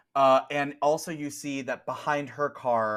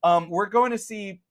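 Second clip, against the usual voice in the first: high, loud, slow laid-back dude; 8 semitones higher, 5 dB louder, slower than usual. Acted. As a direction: drawl out the concert excuse. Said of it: "spiky hair guys is like".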